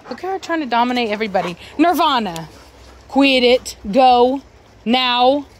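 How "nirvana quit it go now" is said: short loud commands; firm scold. Real, not acted. Owner ordering Nirvana away, loud firm commands. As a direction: bark the orders at the dog.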